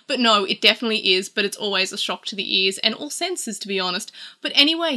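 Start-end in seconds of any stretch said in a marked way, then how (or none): 4.4-5.0 bright reset. Real, not acted. Vlogger steering back to the ads, pitched high. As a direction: perk up and snap back on "anyway". Wrapping up tangent, back to topic.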